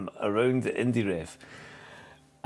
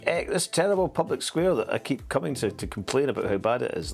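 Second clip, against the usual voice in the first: whiny middle-class complaint; 6 semitones higher than usual. Retold or imitated. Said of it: "the other middle classes going".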